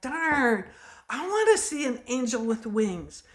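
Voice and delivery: playfully frustrated outburst; mock frustration. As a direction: whine it like a thwarted wish. Retold own frustration at not seeing one.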